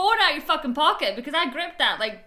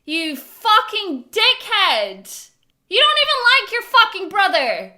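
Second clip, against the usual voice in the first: real angry shout; furious; 6 semitones higher, 9 dB louder than usual. Real, not acted. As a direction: rage at the character. Viewer furious at a character.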